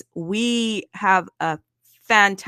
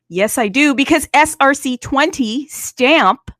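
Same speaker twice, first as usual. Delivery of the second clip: excited; 5 semitones higher, 9 dB louder than usual. Real, not acted. Pushing through the token list.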